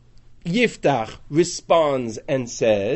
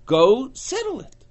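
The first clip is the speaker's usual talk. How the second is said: commanding charge; 11 semitones higher, 4 dB louder than usual. Acted. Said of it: "Yeshua gave us a territory and said".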